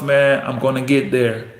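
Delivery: low, steady self-affirmation; determined self-talk. Acted. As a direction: repeat it to yourself like a vow, pausing between lines. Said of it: "You gotta keep telling yourself".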